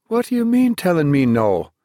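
a shocked, high-pitched cry of disbelief; thunderstruck. Acted. Father stunned when his son refuses him, high shocked cry.

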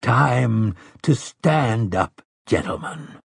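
very slow, solemn exhortation; grave, unhurried closing call; compassionate. A narrator's reading. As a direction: urge them gently, drawing out each phrase. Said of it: "his tone was not without compassion".

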